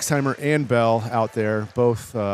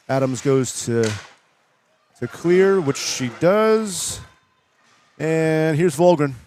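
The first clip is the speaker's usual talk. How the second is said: play-by-play commentary. Real, not acted. Live play-by-play call.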